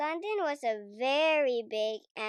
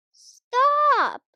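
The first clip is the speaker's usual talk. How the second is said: loud, much higher commanding shout; 13 semitones higher, 13 dB louder than usual. A narrator's reading. Bridge keeper stopping the Queen's bus, loud shout. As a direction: halt them at once. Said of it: "shouted the bridge keeper".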